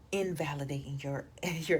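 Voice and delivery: whispered aside. Real, not acted. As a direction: drop to a whisper. Drops to a whisper mid-line.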